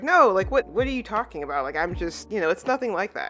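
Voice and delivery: lightly acted flustered panic; mock freaking out. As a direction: stammer out a defensive denial. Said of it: "she sort of freaks out".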